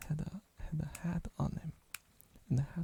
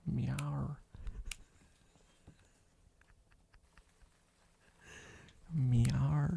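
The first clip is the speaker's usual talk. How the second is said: Australian cat meow. Pretend. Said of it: "I'm an Australian cat".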